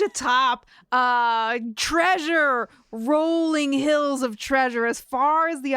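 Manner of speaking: slow, grand fantasy storyteller; storybook narration. Acted. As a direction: paint the dragon's lair grandly. Fantasy scene-setting for the dragon.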